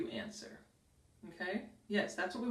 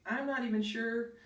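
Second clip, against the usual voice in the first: mock doubt; 3 semitones higher than usual. Shown as a demonstration. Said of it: "it was more like".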